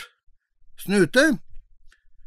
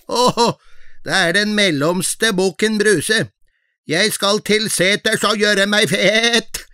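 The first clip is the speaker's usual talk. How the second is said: lightly voiced middle goat; 5 semitones higher than usual. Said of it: "Den var ikke like fin i målet".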